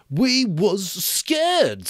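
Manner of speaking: very slow, high, loud insistence; excited Piggy. Acted. Piggy insisting excitedly to Ralph. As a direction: press it with urgency. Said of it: "said Piggy excitedly".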